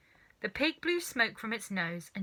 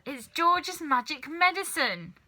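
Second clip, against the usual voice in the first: put-on slow, higher gloating old woman; gloating grandma; 7 semitones higher, 4 dB louder than usual. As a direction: savour each word smugly. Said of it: "said Grandma".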